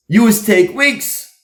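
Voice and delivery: slow it down and pitch up, mock-exasperated; exasperated complaint. Wife tells husband he always takes weeks, mock exasperation.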